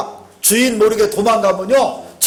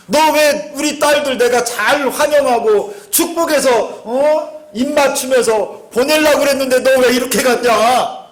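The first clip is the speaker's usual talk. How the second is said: whiny excuse; 4 semitones higher than usual. Retold or imitated. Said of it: "이게 딴소리 하는 거예요".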